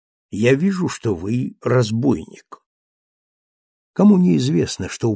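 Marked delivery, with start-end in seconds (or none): 0.1-2.6 cool politeness. Acted. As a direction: call him a bandit with icy manners. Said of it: "с вежливостью странной".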